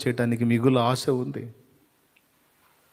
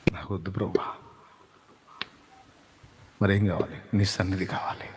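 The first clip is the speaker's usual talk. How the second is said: low, soft, half-whispered questions and answers; whispered intimate prayer; hushed prayer; 8 semitones lower, 7 dB quieter than usual. Acted. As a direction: murmur it like a private talk with God. Hushed prayer dialogue with God.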